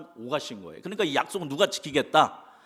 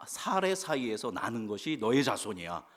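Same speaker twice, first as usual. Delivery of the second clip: whisper; 2 semitones lower, 6 dB quieter than usual. Acted. God voiced telling Abraham's promise.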